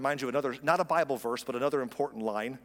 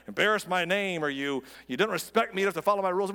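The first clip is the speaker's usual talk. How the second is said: raised, louder mock scolding; imitating proud parent; 4 semitones higher, 4 dB louder than usual. Pastor mimics parents demanding respect from kids, mock indignant. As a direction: lay down the law like an offended parent.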